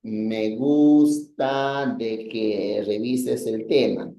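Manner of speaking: slow, deliberate wrong example; wrong usage example. Shown as a demonstration. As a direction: spell out the mistake slowly. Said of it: "Deberías haber dicho nada más". (ejemplo incorrecto, dicho despacio)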